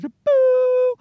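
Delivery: high, drawn-out "boo"; imitated power-down noise. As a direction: make a long high tone for a brain switching off. Imitates a brain shutting down.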